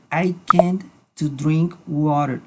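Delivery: slow wrong example; said slowly as a mistake; wrong form. Shown as a demonstration. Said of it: "No, simplemente podemos decir".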